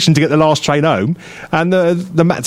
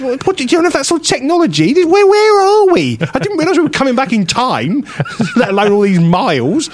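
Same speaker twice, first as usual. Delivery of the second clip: high-pitched indignant disbelief; incredulous outburst; 10 semitones higher than usual. Retold or imitated. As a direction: re-enact a flabbergasted comic rant. Re-enacts disbelief at station man.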